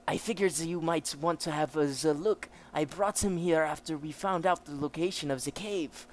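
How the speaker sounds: commanding officer with a put-on German accent; German officer character. German officer explains the prisoner's state, acted officer voice.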